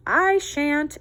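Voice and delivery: high, loud refusing rooster; bratty rooster refusal; lazy rooster. Acted. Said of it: "answered the rooster".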